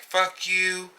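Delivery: high-pitched mock retort; put-on high voice, snippy imitation; mimicked curse. Acting out client's curse.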